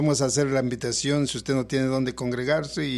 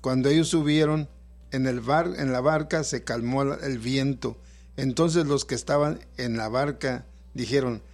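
scripture reading. Acted. Pastor reads Mateo 14 aloud.

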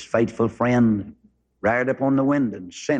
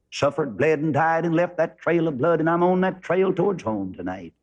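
a lightly heightened pulpit voice, pitch climbing as he drives the gospel home; rising preaching; 3 semitones higher than usual. Acted. Preacher turning the dog story to the congregation, in fervent preaching. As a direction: preach it with building fervor.

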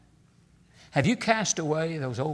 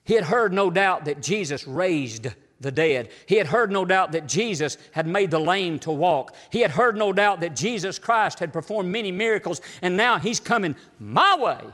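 punchy, rhythmic preacher's cadence, louder on each opening; building preaching; 3 semitones higher, 5 dB louder than usual. Real, not acted. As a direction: hammer each repeated phrase, building momentum.

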